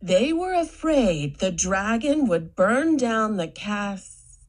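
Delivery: slow, careful reading aloud; slow sounding-out. Shown as a demonstration. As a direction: read word by word like a child. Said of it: "try sounding them out".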